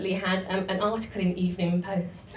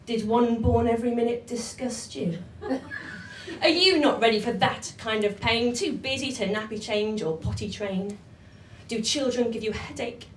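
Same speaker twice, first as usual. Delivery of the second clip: 1 poem reading. Acted. Performs comic poem.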